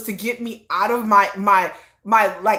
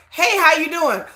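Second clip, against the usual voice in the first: mock cheerful greeting; 4 semitones higher than usual. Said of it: "B T S wanting to kinda".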